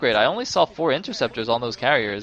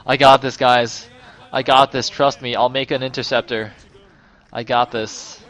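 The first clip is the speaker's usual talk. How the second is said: louder, hammed-up boast for the carrier; cocky carrier voice; 6 dB louder than usual. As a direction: play the unit bragging to its team. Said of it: "He's like".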